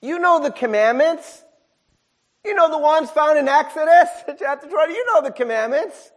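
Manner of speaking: high, loud, insistent repetition; booming reminder; emphatic preaching. Acted. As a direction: press it home. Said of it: "Jesus says".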